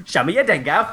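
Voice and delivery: imitating a pushy Aussie; mock a forceful Australian accent. Host mimicking his co-host's forceful predator, Australian accent. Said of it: "he's forceful".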